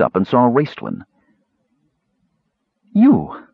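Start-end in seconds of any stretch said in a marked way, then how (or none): 2.9-3.5 high, startled-sounding hollow cry. A narrator's reading. Shavas suddenly sees Raistlin, high hollow cry. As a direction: cry out hollowly, pitch leaping up. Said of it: "she cried in a hollow voice".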